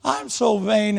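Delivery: lightly hammed-up weepy confession; a touch of a wailing widow; mock crying. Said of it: "she's still crying".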